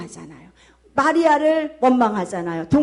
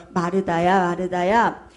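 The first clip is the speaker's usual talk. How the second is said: low, measured call by name; lightly voiced, calming call to someone troubled; gently addressing; 7 semitones lower than usual. Jesus calls to a worried Martha, gently.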